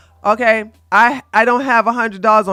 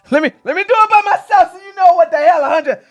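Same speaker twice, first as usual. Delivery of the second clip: exasperated; 8 semitones higher, faster than usual. Real, not acted. Exasperated streamer mocking chatter.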